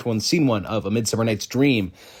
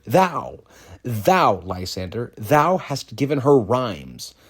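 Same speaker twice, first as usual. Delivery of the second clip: chastising; slower than usual. Acted. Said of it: "chastising Lysander".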